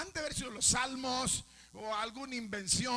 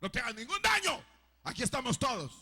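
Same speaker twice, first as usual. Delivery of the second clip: a bit raised, less than a full yell; repeated call from Paul to the jailer; milder retold shout; 3 dB louder than usual. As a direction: call out to reassure him. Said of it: "Le gritó".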